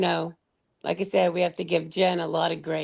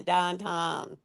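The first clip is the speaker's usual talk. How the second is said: Pittsburgh accent. Shown as a demonstration. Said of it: "they say".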